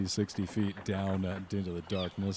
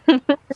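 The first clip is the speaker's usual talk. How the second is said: big high laugh; loud burst of laughter; 15 dB louder than usual. Real, not acted.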